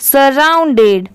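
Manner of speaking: सराउंडेड slowly but blended as one word; whole word, joined. Shown as a demonstration. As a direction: join "sa-round-ded" smoothly. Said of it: "तो पूरा क्या हो जाएगा". (सराउंडेड को जोड़कर, धीरे से)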